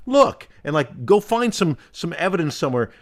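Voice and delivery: emphatic imagined retort; firm retort. Pretend. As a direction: call out to make the point. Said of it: "and say".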